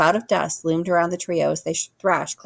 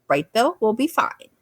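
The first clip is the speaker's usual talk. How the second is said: friendly voice; 6 semitones higher than usual. A narrator's reading. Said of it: "using a friendly voice".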